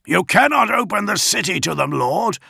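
high, loud, alarmed objection; yelled protest. A narrator's reading. Augustin objects to lowering the shields, yelling high. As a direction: yell it to stop him. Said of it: "Augustin yelled".

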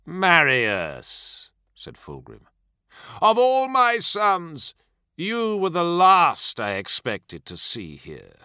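slow, a touch of anguish; understated pained reproach. A narrator's reading. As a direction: wound him with feigned hurt. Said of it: "The words dripped with anguish".

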